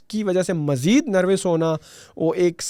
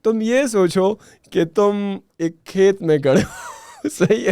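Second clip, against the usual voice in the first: laughing; 4 semitones higher than usual. Real, not acted. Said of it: "मुझे ये बताते हुए हंसी भी आ रही है".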